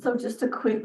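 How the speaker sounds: voice still recovering. Colleague handed the next meeting agenda item, voice still recovering. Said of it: "pardon my voice".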